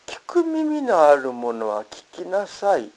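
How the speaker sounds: understated call to listen; mild quoted cry. Retold or imitated. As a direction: quote a cry with slow deliberate weight. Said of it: "と叫ばれた".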